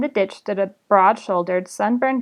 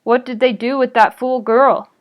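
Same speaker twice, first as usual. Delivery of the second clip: rasped; 3 semitones higher, 6 dB louder than usual. Acted. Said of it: "rasped another goblin".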